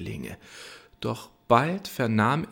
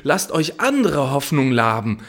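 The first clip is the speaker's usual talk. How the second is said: louder, higher angry call; shouting; 4 semitones higher, 6 dB louder than usual. Acted. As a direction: yell down at the lovers. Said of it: "schrie er". (laut rufend von oben)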